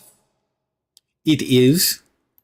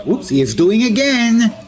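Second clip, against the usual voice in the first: exasperated, pitched up; higher exasperated; 9 semitones higher, 3 dB louder than usual. Acted. Enemy repeating attack.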